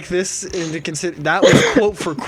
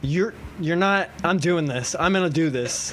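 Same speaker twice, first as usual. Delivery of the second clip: low quiet resolve; 4 semitones lower, 7 dB quieter than usual. Retold or imitated. Telling friends what they said in art class, low and quiet. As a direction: keep it soft and deliberate, haltingly. Retelling own stunned reaction.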